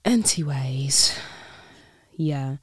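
slow, whispered "Anyways"; whispered aside. Real, not acted. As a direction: breathe it out as a quick aside. Drops topic in a whisper.

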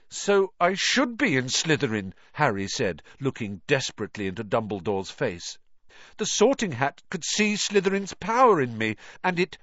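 put-on a worried boy confessing his fear; anxious young boy. Harry pleading with Dumbledore.

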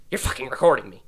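firm accusing teacher, not yet yelling; accusing Karen. Retold or imitated. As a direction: start the accusation, still contained. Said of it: "She's like a Karen".

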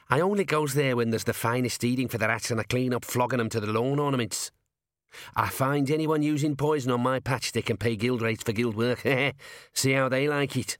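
scrappy gnome voice with a laugh; wicked gnome. Acted. Gnome gloating to the watchmen, wicked and laughing. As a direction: gloat over the guild.

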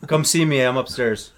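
yelling across the room. Pretend. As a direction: call out to someone upstairs. Calling his wife upstairs.

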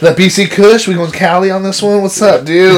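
hammed-up stoner bro.

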